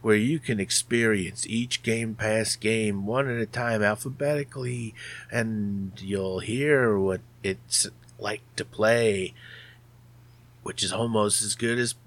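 slow, showy host intro; podcast host intro. Acted. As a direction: welcome listeners like a radio host.

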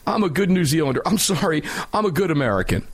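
high-pitched, laughing mock voice of a gun owner handing over his pistol. Host mocking gun owners who turn in their braced pistols, in a laughing high mock voice. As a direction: lift the pitch and giggle through it, playing the eager rule-follower. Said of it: "and say".

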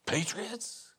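ordinary talk

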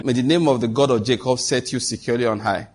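measured blessing, a pause for each amen; prayer blessing. Acted. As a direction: pronounce each line as a blessing over the congregation. Reads Psalm twenty as blessing.

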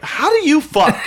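laughing. Retold or imitated. Retelling her own blurted question.

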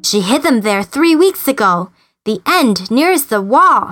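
a bird proud to know; Darzee's bird voice; chattering bird. Acted. Darzee tells where eggs are.

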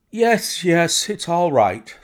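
high, loud, drawn-out assent; jangled nerves. A narrator's reading. Nervous patient accepting the visitors at last, jangled nerves. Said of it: "testified to his jangled nerves".

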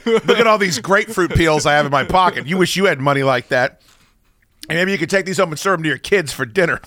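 loud smug boasting; cocky braggart. Pretend. Plays a cocky rich braggart.

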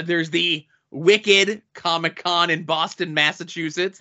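light attempt at a Boston accent; Boston accent on the town names. Shown as a demonstration. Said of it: "That's my attempt at a Boston accent".

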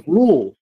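rural said as rule, one syllable; imitating the caller saying rule; mispronounced rural. Host recalling a spelling bee caller's mispronunciation. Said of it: "they were mispronouncing rural".

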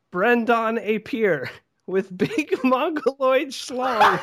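laughing through it. Real, not acted. Cracks up reading the line.

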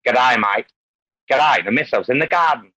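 lightly put-on Australian greeting; a hint of hammed-up Australian; mock Australian accent. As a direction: play up an Aussie accent a touch. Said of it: "I must sound like Rama".

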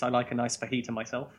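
"fajita" in an English accent, the j said as h; "fajita" in an English accent, f-a-HEE-ta. Real, not acted. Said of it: "weird to hear that in an English accent".

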